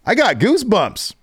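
very high giddy exclamation; thrilled. Retold or imitated. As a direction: gush with excitement. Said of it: "He's like".

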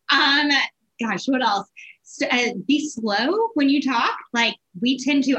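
ordinary talk

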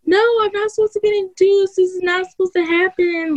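high, distressed pleading; replaying her tearful objection; retold upset protest. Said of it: "And I was like".

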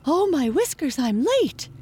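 high-pitched, flustered rabbit fretting; panicked gasp. A narrator's reading. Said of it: "gasped the white rabbit".

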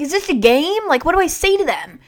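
imitating dad. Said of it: "He's like".

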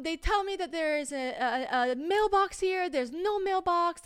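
high, slow, put-on German accent; thick German accent. Stranger explaining the missing mailbox, thick mock German accent. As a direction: imitate a halting German speaker, high and drawn out. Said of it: "she definitely had a thick accent".

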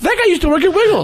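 calling out. Retold or imitated. Calling from car window.

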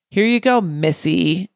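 sarcastic fake sweetness. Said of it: "getting the vibe that it wasn't a term of endearment".

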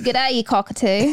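attempted Aussie accent on a short greeting; Australian accent. Shown as a demonstration. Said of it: "Let me try to do an Australian accent".

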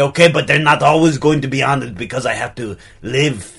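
put-on French-Austrian accent; affected accent. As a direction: artist in a muddled European accent. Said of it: "affect an accent".

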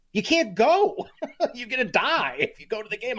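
high-pitched, laughing protest; real laugh breaking into an incredulous warning; laughing in disbelief. Real, not acted. Host warning fans off the freezing game, laughing in disbelief. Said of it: "I'm laughing".

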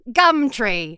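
put-on Australian accent. Shown as a demonstration. The speaker showing off to an Australian, put-on Australian accent. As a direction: try out an Australian accent on a single word. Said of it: "How's my Australian accent?".

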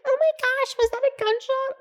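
very high, hammed-up valley girl gasp; mock suburban white girl. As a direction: squeak it out like a sheltered suburban girl. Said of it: "that meme of, like, every white girl".

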